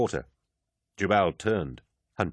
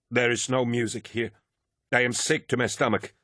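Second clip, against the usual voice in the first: higher-pitched, mildly upset voice; shaking and upset; 5 semitones higher than usual. A narrator's reading. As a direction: voice a touch of shaken distress, pitched up. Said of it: "He was shaking and upset".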